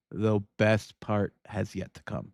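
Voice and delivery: slow, drawn-out teaser. Shown as a demonstration. Host teasing Megan about what comes next, slow and drawn out. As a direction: stretch it out to build suspense.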